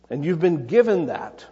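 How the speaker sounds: "given" emphasized within the phrase; stress on GIVEN. Real, not acted. Preacher telling listeners life is a gift, stress on "given". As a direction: lean on the word "given". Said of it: "Emphasis on the word given".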